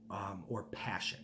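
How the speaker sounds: breathy whispered aside. Real, not acted. Preacher musing on passion, whispered softly. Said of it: "whispered aside".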